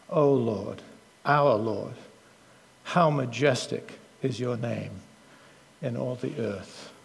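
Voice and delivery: measured, solemn reading of the psalm; scripture reading. Acted. Preacher reading the psalm to the congregation, solemn. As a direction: read it with reverence.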